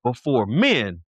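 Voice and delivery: measured, weighty voice of the Lord; God. Retold or imitated. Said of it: "the word of God says".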